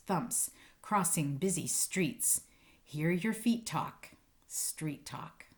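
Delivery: rhythmic read-aloud, savoring each sound word; poem reading. Acted. Teacher reading a poem to her students, rhythmic and savoring. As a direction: read it like a favorite poem for kids.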